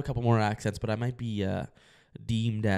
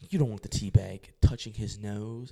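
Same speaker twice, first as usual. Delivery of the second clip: put-on British accent; 2 semitones higher than usual. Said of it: "I'm gonna try to do an accent here".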